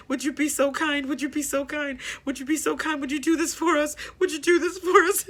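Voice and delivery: a hint of a mother pleading with God, rising toward the end. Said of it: "pleading with God, begging him".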